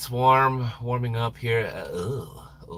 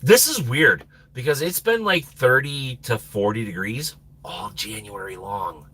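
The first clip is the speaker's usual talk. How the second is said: ordinary talk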